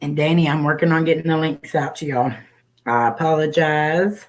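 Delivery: breathless after rushing around; out of breath. Real, not acted. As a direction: talk while catching your breath. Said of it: "I'm out of breath".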